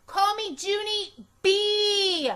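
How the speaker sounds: loud, high, slow insistence; hollering Junie B. A narrator's reading. Girl insisting teacher use her full name, loud and slow. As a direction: stamp every word so she remembers. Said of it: "I hollered the B part real loud".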